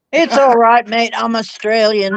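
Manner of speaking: lightly imitated Australian accent; mimicked Australian accent. Teasing a friend's chat-room excuse, mimicked Australian accent. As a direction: echo the Australian mate playfully, in an Australian accent.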